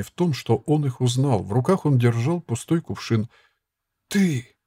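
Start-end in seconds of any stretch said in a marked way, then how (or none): 4.1-4.5 sharp high startled cry; exclaiming. A narrator's reading. Boy recognizing the monk, a startled high cry. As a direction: jump up with a surprised shout. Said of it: "воскликнул Фриц".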